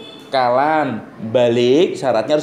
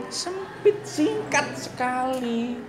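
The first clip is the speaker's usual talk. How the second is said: squeezed and short; 11 semitones higher, 7 dB quieter, much slower than usual. Shown as a demonstration.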